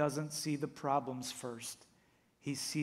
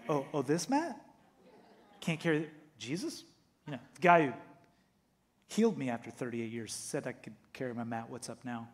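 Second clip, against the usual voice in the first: cheeky mock innocence; faster than usual. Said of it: "He's playing the Jesus card".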